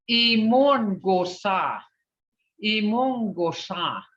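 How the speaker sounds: Imongosa stretched slowly; teacher repeating Imongosa for the class; slow model word. Shown as a demonstration. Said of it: "how these sounds are being broke up".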